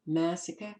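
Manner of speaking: New York accent, massacre without the final r. Real, not acted. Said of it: "there's my New York accent".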